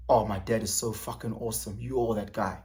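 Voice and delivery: sarcastic soft compliment; mock admiring. Shown as a demonstration. Demonstrating tone, a soft mock praise of dad. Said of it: "Tone, voice".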